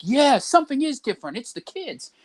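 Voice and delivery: agree, pitched high, fading out; boomer agreeing. Retold or imitated. Boomer concluding it's the kids, high mock voice. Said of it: "It's like".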